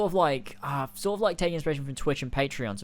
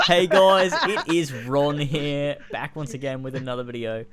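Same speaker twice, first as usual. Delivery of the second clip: hyped youtuber intro; 6 dB louder than usual. Pretend. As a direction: shout it like a hyped YouTuber opening. Mock youtuber intro, laughing.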